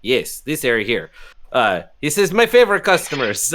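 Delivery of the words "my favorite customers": lightly Russian barkeep greeting; Russian-tinged accent. Acted. Bartender greets favourite customers in a slipping Russian accent. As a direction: let it slide into Russian. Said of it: "it's gonna get Russian again".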